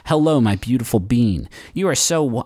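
a light hint of a movie trailer narrator. Host reading a listener's love note, movie trailer voice. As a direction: read the message like a film teaser. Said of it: "in a movie trailer voice".

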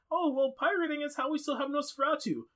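high mocking voice; mock a smug excuse. Mocking an imagined pirate.

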